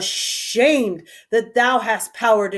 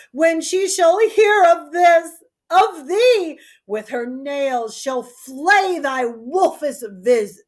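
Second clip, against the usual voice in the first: angry threat; 4 semitones higher than usual. Acted. Father threatening his daughter, angry. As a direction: threaten her with her sister.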